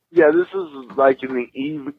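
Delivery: hiccup cuts off the sentence; interrupted by a hiccup. Real, not acted. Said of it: "these hiccups are really bothering me".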